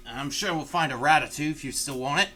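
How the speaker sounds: high, loud dwarven host voice; dwarven Umek accent. Acted. GM as Umek inviting the party to eat, in a dwarven accent. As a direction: lead them off like a jolly dwarf. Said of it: "I don't know what accent I'm doing".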